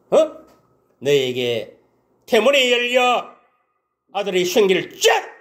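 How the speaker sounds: high, loud, slow solemn pronouncement; proclaiming blessing. Retold or imitated. Priest laying hands on Hannah, loud solemn blessing. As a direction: bless her like a prophet declaring it.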